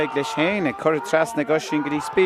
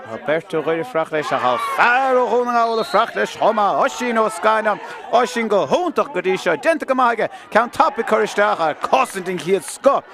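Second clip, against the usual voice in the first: excited commentary; 5 semitones higher, 3 dB louder than usual. Real, not acted. Commentator calling a score for the listeners at home, excited. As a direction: voice lifts high and loud as the point goes over.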